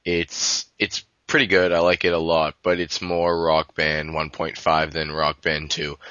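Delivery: stuffy nose, sick voice; nasal voice. Real, not acted. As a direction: talk through a blocked nose. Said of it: "so if my voice sounds a bit nasal".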